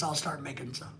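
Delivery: a faint afterthought echo; quiet echo. Shown as a demonstration.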